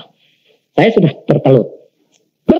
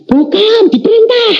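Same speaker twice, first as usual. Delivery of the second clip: voice breaking. Retold or imitated. Answering wife, breaking up.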